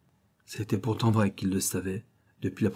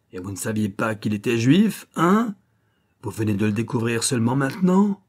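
taunting; 2 semitones higher, 4 dB louder than usual. Acted. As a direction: jeer at his lie. Schiller interrogating Louis.

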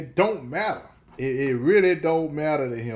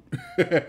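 amused chuckle. Real, not acted. Host amused at the line.

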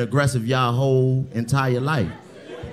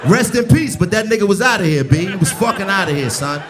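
mock New York rant; 5 semitones higher than usual. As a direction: yell it like a tactless New York friend. Acted New Yorker ranting about grandpa.

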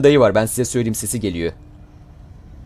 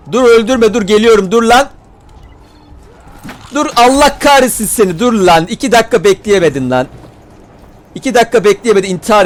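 loud, higher frantic shouts; yelling stop; 6 semitones higher, 4 dB louder than usual. Real, not acted. Gamer yelling at NPC to stop dying, frantic shout. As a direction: yell at the NPC to hold on.

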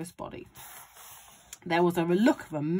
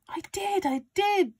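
put-on high, insistent boy's protest; shouting boy; 13 semitones higher, 4 dB louder than usual. A narrator's reading. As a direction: protest it loudly as George. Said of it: "George shouted".

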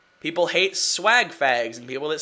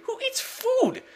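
squeaky high voice; 6 dB quieter, slower than usual. Acted. Squeaky silly question.

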